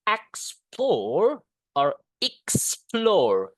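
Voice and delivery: explore with an r, then explore the British way; American and British explore. Shown as a demonstration. Teacher comparing accents for students. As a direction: contrast the two explore sounds slowly. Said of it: "If you want to be like American".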